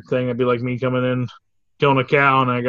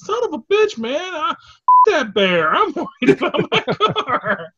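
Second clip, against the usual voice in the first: high, louder angry rant; cussing out; 13 semitones higher, 5 dB louder than usual. Retold or imitated. Friend cussing out the hippie trucker, mock angry rant. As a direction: chew him out over the wrecked car. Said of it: "Zethan just cussing him out".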